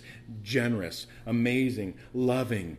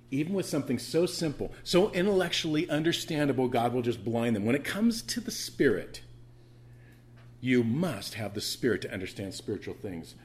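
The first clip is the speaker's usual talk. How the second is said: ordinary talk, nothing marked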